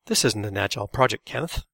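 firm, emphatic objection. A narrator's reading. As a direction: push back with emphasis. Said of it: "Todd said emphatically".

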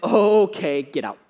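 mock-sarcastic, falling away at the end. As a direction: play it as a sarcastic brush-off. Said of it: "like, sarcastic?".

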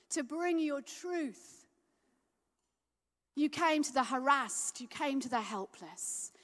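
slow, earnest prayer drifting to whispers; heartfelt prayer. Real, not acted. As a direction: pray it slowly from the heart. Preacher leads closing prayer.

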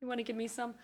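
hint of a cute pet asking politely; Tater. Cat pawing at owner for sandwich, lightly voiced cute plea. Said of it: "just kinda goes".

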